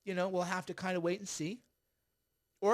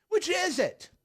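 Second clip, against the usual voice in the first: much higher, louder mock demand; exasperated squeak; 11 semitones higher, 5 dB louder, slower than usual. Vlogger mocking the senator's contradiction, high exasperated squeak. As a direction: squeak it out in disbelief.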